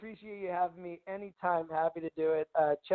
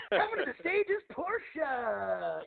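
strip club announcer; 3 semitones higher, much slower than usual. Retold or imitated. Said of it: "strip club announcer voice".

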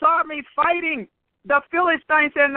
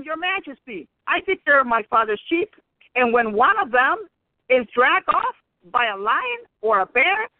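lightly voiced David. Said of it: "David told him".

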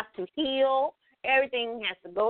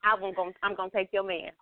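Impersonation of a rap group. Retold or imitated. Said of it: "in the words of a rap group".

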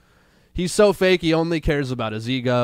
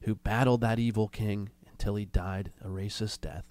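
hushed creepy legend telling. Pretend. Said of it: "Gather around, children".

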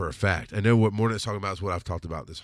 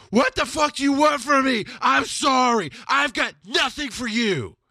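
high, loud desperate shout; screaming; 5 dB louder than usual. Retold or imitated. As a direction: scream it at the top of your lungs. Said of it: "I finally screamed at the top of my lungs".

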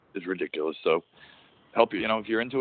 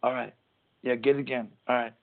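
a rambling pro wrestler talking moves, pitched up; Jeff Hardy impression; 7 semitones higher than usual. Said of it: "yeah, that's Jeff Hardy".

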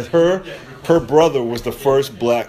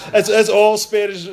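words squeezed out through a laugh, slower; 8 semitones higher than usual. Real, not acted. Comic joking about Spanish to the guest, laughing. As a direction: still chuckling as he talks. Laughing at his own joke.

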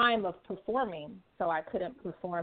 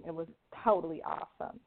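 put-on white girl voice; 2 semitones lower, 4 dB quieter than usual. Shown as a demonstration. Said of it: "in my white girl voice".

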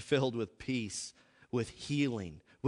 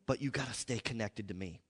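loving voice of God; 4 dB quieter than usual. Shown as a demonstration. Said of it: "that dead religion running through your mind".

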